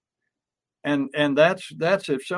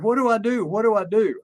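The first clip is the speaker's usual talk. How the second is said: mock frantic plea; 5 semitones higher than usual. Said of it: "she was frantic".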